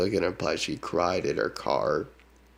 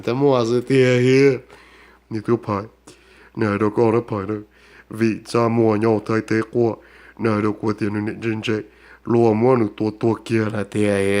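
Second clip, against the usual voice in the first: loud shouted commands; 2 semitones higher, 7 dB louder than usual. Acted. Shouting commands in other tongues.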